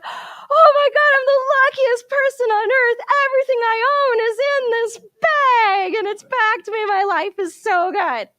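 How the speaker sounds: very high, loud sobbing joy, slowing as it fades; tears of joy. Acted. Nasruddin finding his bag full again, sobbing with joy. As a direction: cry out in overwhelmed happiness. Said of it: "he's crying, wailing tears of joy".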